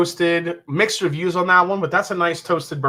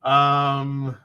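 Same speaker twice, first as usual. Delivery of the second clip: ordinary talk, nothing marked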